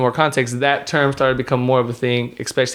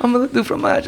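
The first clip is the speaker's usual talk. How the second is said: squeaky high Dexter's Lab French; high-pitched cartoon French chef; 11 semitones higher than usual. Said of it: "shout out to Dexter's Lab".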